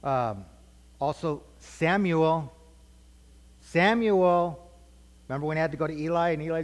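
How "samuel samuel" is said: drawn-out call of a name, raised pitch. Retold or imitated. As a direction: imitate a voice calling someone from afar. God calling Samuel out loud.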